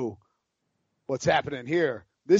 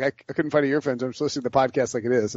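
wife quote; 4 semitones lower, much faster than usual. Retold or imitated. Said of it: "She's like".

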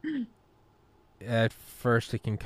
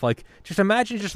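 ordinary talk

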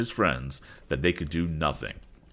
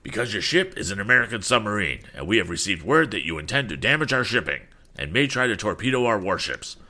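accusing, official officer's voice; lightly voiced stern officer; 3 semitones higher than usual. Officer arresting American submariners, lightly voiced stern accusation. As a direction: lay out the charges with authority.

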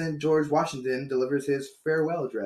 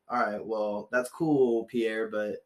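lazy American-sounding Frenchman; 4 semitones lower than usual. Retold or imitated. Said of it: "so he talks with an American accent".

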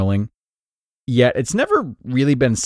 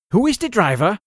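put-on a playful German accent, much higher pitch, rising at the end; family copying the German accent; 11 semitones higher than usual. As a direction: everyone mimics the father's German accent. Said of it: "my father would say in his German accent".

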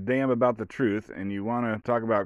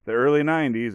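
mocking boilerplate; 6 semitones higher than usual. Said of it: "that was like".

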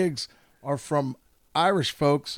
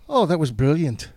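Irish compliment. Retold or imitated. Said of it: "I love their compliments".

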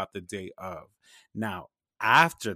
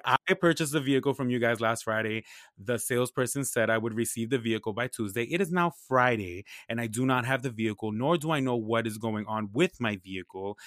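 professional voice. Retold or imitated. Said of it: "professional person's voice".

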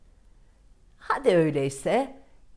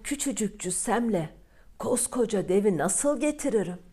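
put-on worried young glassmaker. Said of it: "kara kara düşünmüş".

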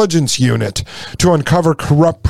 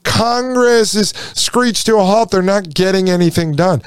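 mock complaining voter; 3 semitones higher than usual. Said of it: "You say".

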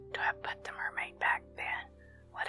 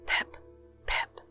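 voiced and louder, a cheery holiday call; joyful shouts; 4 dB louder than usual. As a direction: break out of the whisper to call it out gaily. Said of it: "clamber the breakwater with joyful shouts".

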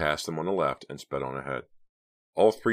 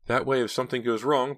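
high, louder character voice; worried young woman; 9 semitones higher, 5 dB louder than usual. A narrator's reading. Driver imagining the robbery failing, worried. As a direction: speculate in a raised voice. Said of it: "Pam conjectured".

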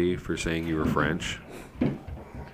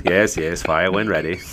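lightly voiced British captain, measured; understated British naval accent; second British captain. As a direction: give a composed British officer's reply. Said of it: "There's a couple different captains".

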